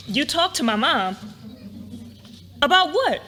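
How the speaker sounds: taken aback, demand to know; surprised. Acted. Learns he talked to her mom.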